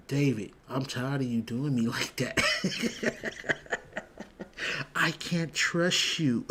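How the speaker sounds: imitating him while cracking up; laughing mock quote. Retelling the guy's words to Buck, laughing through the quote. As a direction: quote the guy through laughter, slowing at the end. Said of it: "Old boy was like".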